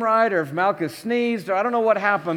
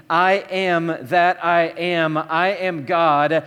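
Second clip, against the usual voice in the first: solemn slow; much slower than usual. Pretend. Solemn divine claim, slowed.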